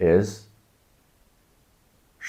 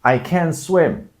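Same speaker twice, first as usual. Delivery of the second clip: shouting for help; 11 semitones higher, 7 dB louder than usual. Pretend. Person who fell in the water shouts for help. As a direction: yell like you're drowning. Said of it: "the person that fell into the water might shout".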